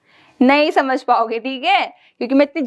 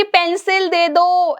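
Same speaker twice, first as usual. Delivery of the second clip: drawn-out loud ask; 4 semitones higher, much slower than usual. Shown as a demonstration. Teacher showing kids the wrong way: slow raised "पेंसिल दे दो". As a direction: stretch out "पेंसिल दे दो" slowly and a bit loud. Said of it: "ऐसे नहीं कि".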